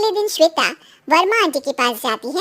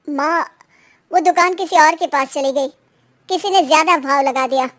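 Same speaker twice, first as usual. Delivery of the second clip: dejected. Acted. Son tells his mother the shop is gone, mildly dejected. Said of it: "बहुत दुखी होकर".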